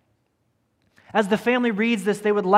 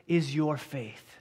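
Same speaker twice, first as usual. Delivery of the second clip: Jesus speaking; 5 semitones lower, 5 dB quieter, much slower than usual. Retold or imitated. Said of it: "And he says".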